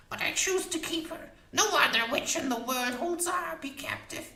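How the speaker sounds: high, fierce crone voice; witch voice. A narrator's reading. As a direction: boast like a proud old witch. Witch voice continues.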